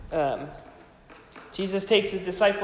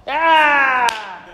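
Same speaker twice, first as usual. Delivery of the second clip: surprised exclamation; 7 semitones higher, 10 dB louder than usual. Real, not acted. Reacts to a listener's answer.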